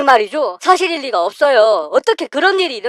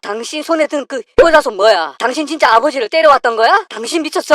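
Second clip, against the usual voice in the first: shocked outrage; 3 semitones higher than usual. Acted. Husband catching his wife beating his father, outraged. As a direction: demand answers from her, stunned and furious.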